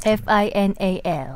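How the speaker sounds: slow, flat robotic letter-by-letter spelling; old speech synthesizer. Pretend. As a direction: spell it out like a machine voice. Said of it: "김선재 아나운서가 기계음처럼 좀 해주셔야죠".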